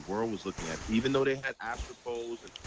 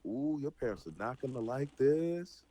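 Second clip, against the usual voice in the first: lightly acted, higher-pitched warning; a sing-song "ooh, you're in trouble" warning; mild teasing warning to siblings; warning tattletale; 4 semitones higher than usual. Voicing someone warning misbehaving kids.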